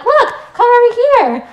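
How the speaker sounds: put-on high bossy little-girl voice, laughing; child voice. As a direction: play the kid teaching a game.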